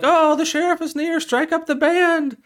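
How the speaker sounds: high, loud townsfolk holler; excited calling out. Retold or imitated. Townsfolk ordering the band to welcome the sheriff, calling out.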